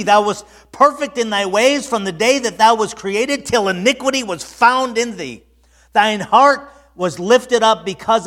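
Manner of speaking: high, loud pulpit voice; full-force preaching. Acted. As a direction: proclaim it loudly to the congregation.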